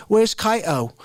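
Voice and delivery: put-on overdone, botched English accent. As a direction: try a cool English accent and miss it. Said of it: "like, cool English accent".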